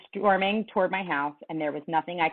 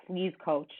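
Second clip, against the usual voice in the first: pleading, voice breaking; 3 dB louder than usual. Acted. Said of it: "The words began to break up in my throat".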